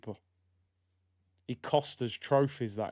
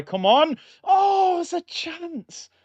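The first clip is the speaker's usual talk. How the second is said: high-pitched yell at a sudden chance; excited match shout; 7 dB louder, much slower than usual. Real, not acted. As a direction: burst out high and loud, then stretch the words.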